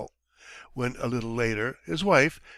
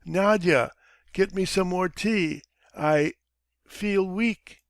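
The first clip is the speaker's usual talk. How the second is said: languid; 6 semitones higher, slower than usual. Acted. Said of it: "says in a languid voice".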